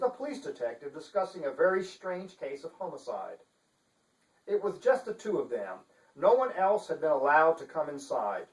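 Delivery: measured storyteller voice; story narration. Acted. Author reading his novel to viewers, steady storytelling. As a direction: read it like a thriller opening.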